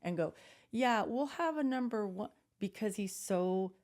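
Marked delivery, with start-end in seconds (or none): 0.7-2.3 nervous ordering. Retold or imitated. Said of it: "he gets nervous".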